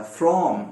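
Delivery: फ्रॉम with the full o of watch; strong form. Shown as a demonstration. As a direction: stress फ्रॉम, full vowel. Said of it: "फ्रॉम के दो प्रोनंसिएशंस होते हैं".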